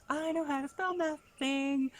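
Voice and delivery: put-on high, loud bragging child; proud little girl. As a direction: boast like a thrilled kid. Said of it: "she goes".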